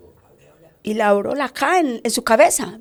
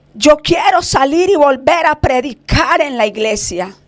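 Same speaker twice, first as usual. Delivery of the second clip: imitated tearful pleading; 2 semitones higher than usual. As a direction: act out a pastor's plea, mildly tearful, rising towards the end. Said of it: "Él decía llorando". (súplica llorosa imitada, cada vez más urgente)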